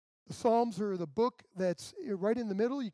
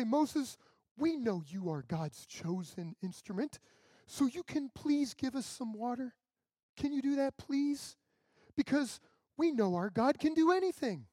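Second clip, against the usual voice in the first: sweetly pleading, pitched up high; mock polite plea; 4 semitones higher than usual. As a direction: play the polite people asking nicely. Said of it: "That's not what they said".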